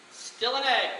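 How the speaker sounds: ordinary talk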